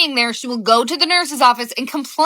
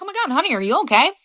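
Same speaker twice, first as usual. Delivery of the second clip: mildly concerned; 2 semitones higher, faster than usual. Retold or imitated. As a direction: ask her with real worry. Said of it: "even I was a little concerned".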